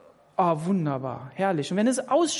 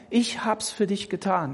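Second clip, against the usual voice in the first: sanft als Jesus. Pretend. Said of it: "also Jesus".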